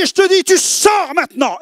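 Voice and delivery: high, loud command; commanding shout. Retold or imitated. Young convert commanding the witch's spirit to leave, shouting. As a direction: order the spirit out with full force.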